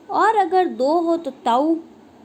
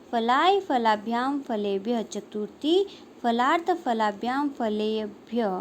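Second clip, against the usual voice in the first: declension recitation. Shown as a demonstration. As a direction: recite a Sanskrit declension table, form by form. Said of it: "किस प्रकार से पढ़ेंगे हम". (शब्द रूप का लयबद्ध पाठ)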